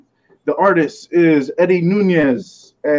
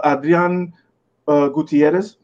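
Adrian and Gutierrez said with a Spanish accent, rolled and stretched. Shown as a demonstration. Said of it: "Spanish accent".

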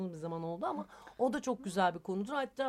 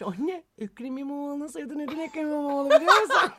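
put-on child voice; 5 semitones higher, 10 dB louder than usual. Mother quotes her young child.

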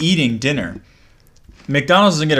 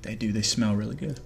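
far from mic; 3 semitones lower, 11 dB quieter than usual. Real, not acted. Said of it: "if I sound far away".

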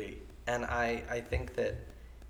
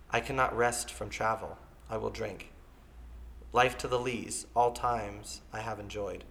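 poem reading. Acted. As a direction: recite it with weight and feeling. Reads Tennyson poem aloud.

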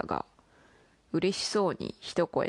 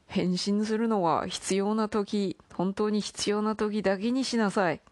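put-on stern old man; 4 semitones higher, 3 dB louder than usual. Grandfather gives warning.

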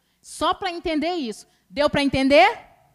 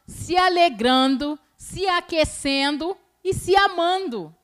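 slow, weighted preaching, each phrase set apart; slow exhortation; 4 dB louder, slower than usual. Acted. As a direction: lay down each charge slowly and firmly.

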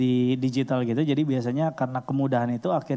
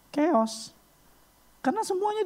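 dramatic chaos; 3 dB quieter than usual. Acted. World where every prayer is granted.

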